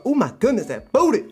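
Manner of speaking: high, exclaiming amazement; excited reaction. Retold or imitated. Streamer showing chat a manga, gushing in mock awe. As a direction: gush with rising, exaggerated delight.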